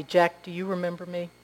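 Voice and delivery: soft, understated question; softly. Acted. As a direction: ask it gently and quietly. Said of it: "she said softly".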